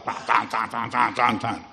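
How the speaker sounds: machine noise. Retold or imitated. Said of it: "máquinas que hacían un ruido bárbaro".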